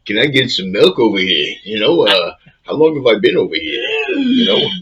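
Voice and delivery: mock the actor's accent drifting to New Jersey; lightly voiced movie star who has lost his German accent. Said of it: "he started speaking like".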